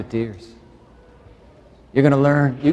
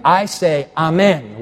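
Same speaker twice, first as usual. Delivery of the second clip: lifted, louder call of amen; 3 semitones higher than usual. Shown as a demonstration. Preacher calling amen to rouse the congregation. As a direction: call it out so they answer. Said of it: "No, let me say it again".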